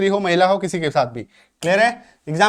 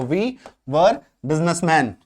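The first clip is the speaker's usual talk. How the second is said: very slow, clear teacher model; slow model sentence; 2 semitones lower, much slower than usual. Shown as a demonstration. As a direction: spell it out word by word for learners. Teacher modelling example slowly.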